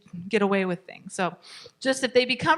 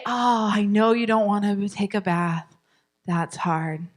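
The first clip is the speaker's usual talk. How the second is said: empathetic. Shown as a demonstration. Parent empathizing with child who won't bathe, gently. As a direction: gently acknowledge the feeling. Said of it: "We're always gonna be empathetic".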